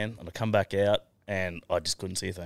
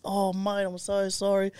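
apologetic guard; 12 semitones higher, slower than usual. Retold or imitated.

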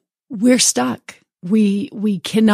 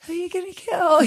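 calm question; 10 semitones higher, 4 dB quieter, faster than usual. Retold or imitated. Therapist questions the gunman.

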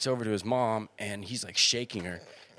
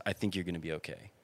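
put-on softer and softer, calming a scared kid; soothing voice that drops to a whisper; soft reassurance; 4 semitones lower, 10 dB quieter than usual. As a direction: talk him down gently, fading to a whisper. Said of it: "and I was like".

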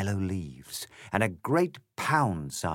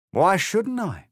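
high, louder, cocky grinning cat; smug cat; 11 semitones higher, 6 dB louder than usual. Acted. The grinning cat answering Alice with a swagger. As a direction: toss it off like a swaggering pub cat. Cat character voiced in story.

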